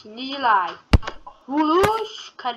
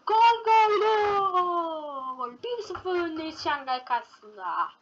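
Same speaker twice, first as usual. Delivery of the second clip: goal call; 5 semitones higher than usual. Pretend.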